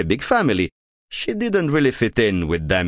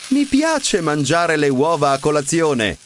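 excited cry; 5 semitones higher than usual. A narrator's reading. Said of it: "cried Wilma".

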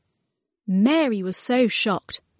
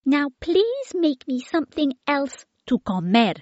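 insisting, mouth full; 7 semitones higher, 3 dB louder than usual. A narrator's reading. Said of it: "insisted Baby, her mouth full".

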